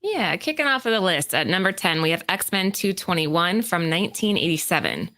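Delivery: even, presenter-style read; scripted list read. Acted. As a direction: read out the countdown entry to the audience. Reads prepared list segment.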